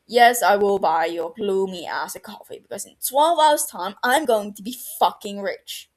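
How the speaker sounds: loud defiant boast; heated arguing. Acted. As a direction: argue it out loud. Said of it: "Barty argues".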